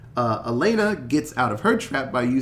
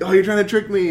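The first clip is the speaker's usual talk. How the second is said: paranoid mock voice; 7 semitones higher, 6 dB louder, faster than usual. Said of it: "You're like".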